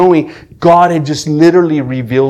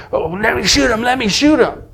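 pitched-up retold plea; acted-out eager demand; 9 semitones higher than usual. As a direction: imitate someone clamoring for the gun. Acting out armed men fighting over gun.

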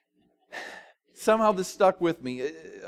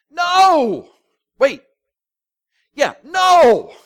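high, loud shout of denial; shocked outcry; 11 semitones higher, 11 dB louder, much slower than usual. Acted. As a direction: yell it like the crowd can't believe it.

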